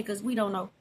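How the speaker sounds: quiet, soft chuckling confession; laughing admission. Real, not acted. Owning up to viewers about English homework, soft laugh. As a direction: laugh it out softly under the breath. Admits Americans can't help.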